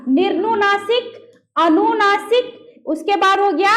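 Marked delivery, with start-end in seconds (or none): 0.1-1.3 slow and drawn-out, syllable by syllable; teacher stretching the term out; slow, clear term. Shown as a demonstration. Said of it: "चार प्रकार में हो गया आपको क्या?". 1.6-2.7 अनुनासिक drawn out very slowly, each syllable clear; teacher dictating a term. Shown as a demonstration. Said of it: "चार प्रकार में हो गया आपको क्या?".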